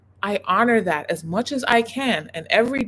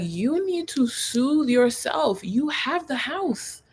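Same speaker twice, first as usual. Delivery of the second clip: slow, soothing reassurance; calm him down gently and slowly; slow, gentle soothing counsel; soothing advice; 5 semitones higher, slower than usual. Retold or imitated. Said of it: "I was like".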